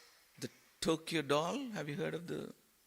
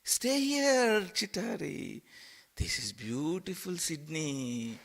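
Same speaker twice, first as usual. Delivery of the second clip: coaxing Maya; 3 semitones higher, slower than usual. Acted. Maya voiced again.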